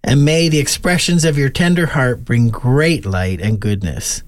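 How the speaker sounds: a gentle, measured blessing, lightly prayerful; calm closing prayer over grandparents; spoken benediction. Acted.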